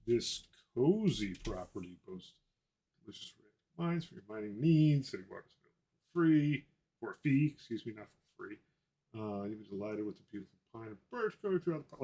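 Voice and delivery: lightly voiced realtor reading listing copy; mock realtor pitch. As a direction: improvise sales patter in a light realtor voice. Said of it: "get into my inner realtor voice".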